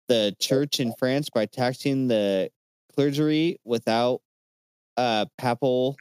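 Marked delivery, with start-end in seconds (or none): 5.4-6.0 "papal" with a short flat A, as in pal; short-A pronunciation. Real, not acted. Podcaster guessing at a church word, "papal" with short A. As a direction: say "papal" so the first syllable rhymes with pap. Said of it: "I wasn't sure if it was a, like, you know, pal".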